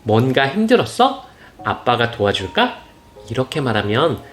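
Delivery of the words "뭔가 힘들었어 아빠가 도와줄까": gentle reassuring. Shown as a demonstration. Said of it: "이걸 이렇게 바꿔보세요".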